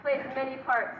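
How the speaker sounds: hammy stage actor reciting the Bard; theatrical declamation. Acted. Villain declaims Shakespeare over victim.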